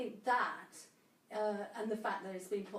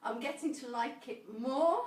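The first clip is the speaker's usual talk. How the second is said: through gritted teeth; 2 semitones higher than usual. Real, not acted. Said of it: "talking through gritted teeth".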